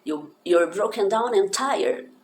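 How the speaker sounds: broken down and tired linked, slow and loud; putting the line together; joined slow read. Shown as a demonstration. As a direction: run the words together slowly. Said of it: "E aí você junta".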